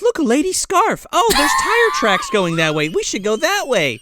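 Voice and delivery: high, eager mock discovery; imitated tracker. Fairy spotting tracks for Santa, high mock excitement. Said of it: "she's like".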